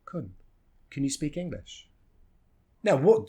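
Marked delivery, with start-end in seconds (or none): 0.1-0.3 CAN reduced to a short "kun"; quick unstressed schwa in can; tiny, neutral "kun"; weak form of can. Shown as a demonstration. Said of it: "we can just reduce it". 0.9-1.9 CAN reduced to a quick "kun"; soft question gliding over "Can"; unstressed CAN, clearer "speak English"; weak form of can. Shown as a demonstration. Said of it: "reduce it to".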